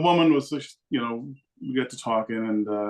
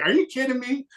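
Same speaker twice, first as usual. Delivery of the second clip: high-pitched disbelief; retold incredulous outburst; 13 semitones higher than usual. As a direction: imitate someone who can't believe it. Woman incredulous he doesn't know.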